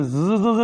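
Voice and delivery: "ज़" की सिसकारती आवाज़ बार-बार; "ज़, ज़, ज़" को दाँतों के बीच से सिसकारते हुए बोलें; hissing z sound. Shown as a demonstration. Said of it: "इसको बोलते हैं हिसिंग साउंड". ("ज़" की हिसिंग ध्वनि को दोहराकर दिखाएँ)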